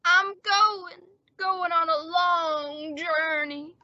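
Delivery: slow, hammed-up farewell of a dying man; fake deathbed voice. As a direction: fade away dramatically, drawing it out. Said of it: "pull this deathbed gag".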